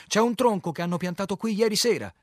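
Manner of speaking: loud, high holler across water; shouted warning. A narrator's reading. Man on the bank warning captain of a snag, shouting. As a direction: call the hazard out to the boat. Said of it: "gridò".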